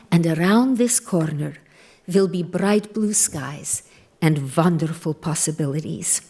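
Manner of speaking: gentle imitation of a father's Hungarian accent; quoting Dad in a light Hungarian accent, reassuring. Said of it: "in his wonderful, rich Hungarian accent".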